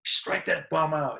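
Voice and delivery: mock Southern drawl, stretching the words. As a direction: lightly imitate a Southern fan's drawn-out heckle. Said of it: "going off in his southern drawl".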